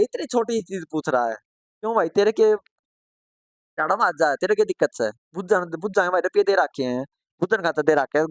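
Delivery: हल्की सी नकल, चिढ़ाते सहपाठी; देहाती अंदाज़ में ताना मारना; mocking classmates. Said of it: "बच्चे मजाक भी उड़ाते थे". (पुराने सहपाठियों का मज़ाक उड़ाना, हल्के अभिनय में)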